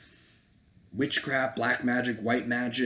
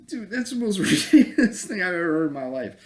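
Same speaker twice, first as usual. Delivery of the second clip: louder and higher, laughing through it; incredulous laughing outburst; 6 semitones higher, 6 dB louder, faster than usual. Real, not acted. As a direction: laugh in disbelief. Laughing at the absurdity.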